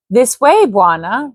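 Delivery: put-on a light Indian accent for the chief; lightly voiced Indian-accented native chief. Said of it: "I made the native sound Indian".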